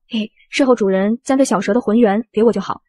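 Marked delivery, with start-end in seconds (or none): 0.1-0.3 sly giggle. Acted. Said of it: "小猪直接嘿嘿一笑".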